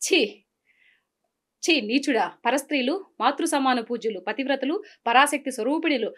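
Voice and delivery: a hint of an outraged heroine, declaimed; Savitri dialogue. Heroine rebukes the wicked king, theatrical declamation. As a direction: scold the villain in stately film diction. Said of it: "Savitri".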